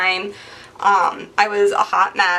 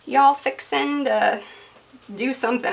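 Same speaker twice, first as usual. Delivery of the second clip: southern twang; 4 semitones higher than usual. Pretend. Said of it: "talking with a twang".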